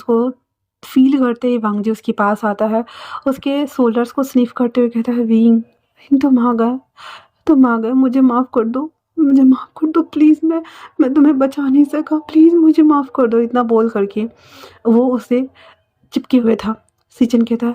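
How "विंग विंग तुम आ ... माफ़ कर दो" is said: urgent apology building in pitch; desperate pleading. Acted. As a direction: beg for forgiveness, growing more urgent. Wangji begs Wing for forgiveness.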